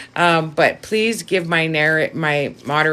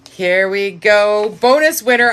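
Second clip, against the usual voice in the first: excited announcement; 4 semitones higher, 5 dB louder than usual. Real, not acted. Announcing the bonus winner.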